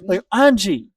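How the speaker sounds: lightly put-on Australian accent. Shown as a demonstration. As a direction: say Angie with an Australian twang. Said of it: "I can kinda do one".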